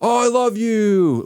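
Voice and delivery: high, slow, hammed-up wife voice melting into I love you; mock swooning wife. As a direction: play the wife gushing, lifted high and drawn out. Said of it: "they're gonna be like".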